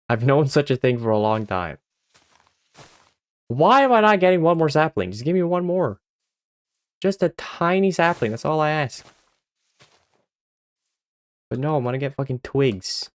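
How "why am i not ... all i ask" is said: high, whiny pleading with the game. Real, not acted. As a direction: beg for one more sapling.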